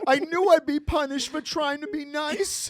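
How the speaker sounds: laughing. Real, not acted. Laughing mock hurt.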